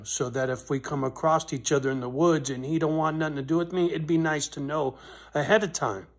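rising heated retort to a neighbor; retold angry warning. Man retelling what he told the neighbor, getting angrier. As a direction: builds from firm to a loud cursing threat. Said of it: "I go".

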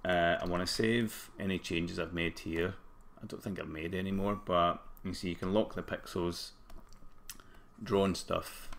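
hoarse morning voice; rough, croaky throat; groggy throat. Real, not acted. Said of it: "a hell of a groggy throat this morning".

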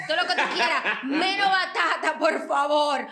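laughing, pleading no sweet potato; laughing insistence. Real, not acted. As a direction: laugh through the plea.

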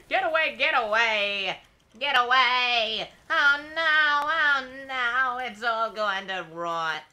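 high, loud hammed-up panic; mock panic. Player hams up panic as robots close in, mock shriek. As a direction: shriek at the robots to get away.

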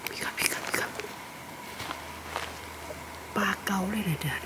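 unvoiced hushed whisper. Real, not acted. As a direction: whisper so nobody nearby hears. Quiet forest aside.

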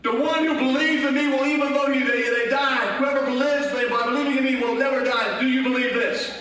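driving pulpit proclamation; full-force preaching. Real, not acted. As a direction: preach it hard to the congregation.

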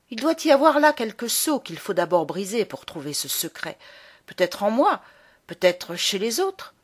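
lightly voiced boy puzzling out a secret, pitch leaping on questions; agitated, frustrated boy. Locked-in boy frets over the adults' secret, lightly voiced agitation. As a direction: restless inner monologue of a shut-in child, lightly acted.

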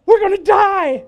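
high, loud mock panic; a hammed-up cry of doom. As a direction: wail it like you're doomed. Panicked after mafia warning.

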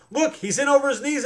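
loud high alarmed cry; frightened girl shouting to her friend. A narrator's reading. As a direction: point it out in alarm. Ellen alarmed in stream.

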